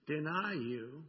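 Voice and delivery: slow, emphatic vow, NEVER drawn out; brash vow. Retold or imitated. Preacher quoting Peter's promise to Jesus, brash and slow. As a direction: declare it brashly, stretching the words. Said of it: "despite his brashness of saying".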